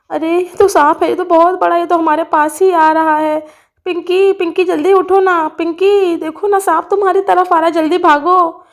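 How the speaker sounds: lightly voiced child in alarm. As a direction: cry out as a child spotting danger. Child warns fallen friend.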